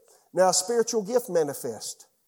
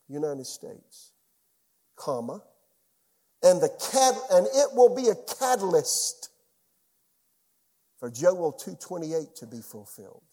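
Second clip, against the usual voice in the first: prophetic utterance. Retold or imitated. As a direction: pronounce it like a prophecy being received. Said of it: "came out of my mouth interpretation".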